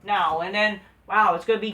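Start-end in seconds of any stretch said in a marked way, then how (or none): 0.0-0.4 higher, louder mock announcer voice; a lightly hammed-up GM announcement. Viewers hear the GM's treat, lightly mocked as a bored announcer. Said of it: "and says".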